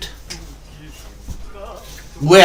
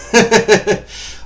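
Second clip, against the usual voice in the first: King Koopa laugh; 7 semitones higher than usual. Retold or imitated. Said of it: "Just like King Koopa laughs".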